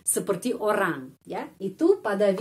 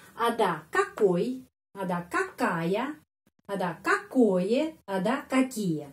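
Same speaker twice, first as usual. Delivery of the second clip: 1 slow listing; slower than usual. Shown as a demonstration. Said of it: "ada empat macam".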